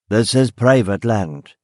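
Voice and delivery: lightly put-on country accent, slow; a touch of rural gamekeeper accent. Gamekeeper barring the road to a policeman, light country accent. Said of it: "he said in a country accent".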